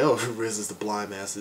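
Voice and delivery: mildly amused, with a small chuckle; retold chuckle. Reviewer recalling his reaction to the casting, lightly chuckling. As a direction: let a light laugh slip in after "Oh". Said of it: "I chuckled a bit".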